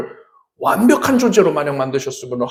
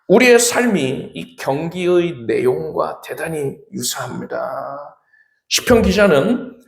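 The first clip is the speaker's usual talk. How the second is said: usual speaking voice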